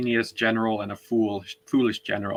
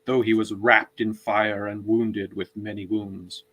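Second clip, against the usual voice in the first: reading aloud. Shown as a demonstration. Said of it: "read a chunk of it".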